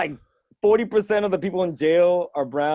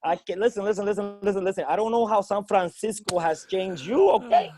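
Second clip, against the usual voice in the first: put-on old-school Spanish dad; 3 semitones higher than usual. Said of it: "every old school Spanish dad".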